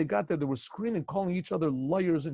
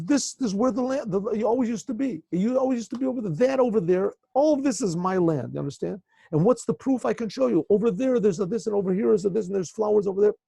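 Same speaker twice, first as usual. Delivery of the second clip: raised, higher voice, insisting hard; heated yelling; 5 semitones higher, 4 dB louder than usual. Retold or imitated. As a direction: argue your claim loudly to the rabbi. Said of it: "And they're yelling".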